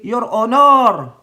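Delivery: hammed-up booming "Your Honor", stretched out slow; mock loud "Your Honor". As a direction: belt out "Your Honor" like an eager witness. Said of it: "Ang taas pa ng boses niya eh".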